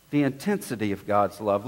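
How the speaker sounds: softly repeated to let it sink in; hushed repeat. Shown as a demonstration. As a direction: drop it to an intimate hush.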